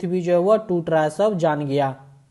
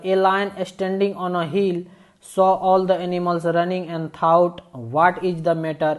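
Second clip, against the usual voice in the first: slow, deliberate read-aloud of the English text; slow story reading; much slower than usual. A narrator's reading. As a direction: read each phrase slowly, as if to a class.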